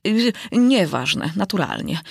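mildly flustered echo; hasty agreement. Acted. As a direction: drag out nieważne, unsure. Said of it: "powiedział pośpiesznie król".

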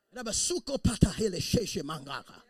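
loud, laughing excited babble; excited jabbering. Retold or imitated. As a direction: babble happily into the phone. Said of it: "with the phone to my ear".

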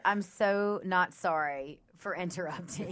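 snarky. Retold or imitated. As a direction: drag out the fake apology. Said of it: "And she said".

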